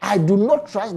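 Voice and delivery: "I do not trust" said with deliberate emphasis; emphatic stress. Real, not acted. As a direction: lean firmly on "I do not trust". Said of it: "I will say it with emphasis".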